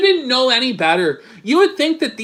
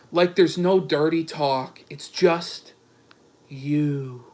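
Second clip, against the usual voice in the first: mock romantic reading, sinking quieter; Dick; 5 semitones lower, 3 dB quieter than usual. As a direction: read it as a mock-seductive suitor, low and soft. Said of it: "is fired up now".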